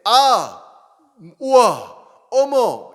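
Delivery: loud, high run of gasps; excited exclamations. Retold or imitated. Pastor imitating young people's excited exclamations. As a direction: mimic young people gushing. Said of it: "신세대들 사이에".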